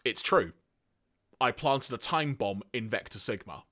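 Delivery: understated, matter-of-fact confession; deadpan. Acted. Zarak admitting he planted the bomb, deadpan. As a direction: answer deadpan, without any drama. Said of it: "Zarak then just deadpan responds with".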